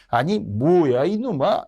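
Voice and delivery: pitch-jumping indignant outburst; acted nobleman's rebuke; scolding. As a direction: tell off a cheeky servant. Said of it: "야단을 쳤다는 게".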